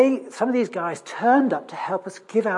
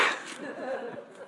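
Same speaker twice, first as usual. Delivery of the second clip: breathy laugh; 7 semitones higher, 10 dB quieter than usual. Real, not acted. After chap's stunned reply.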